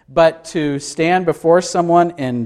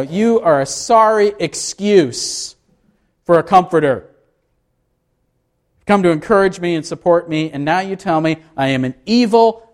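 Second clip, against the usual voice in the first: hurt retort; 3 semitones higher than usual. Acted. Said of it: "a paraphrase that we say".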